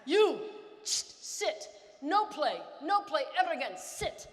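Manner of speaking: clipped shouted coach voice; angry coach. Retold or imitated. A coach shouting at his player to sit down. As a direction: order him off like a furious coach. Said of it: "coach suspends the player".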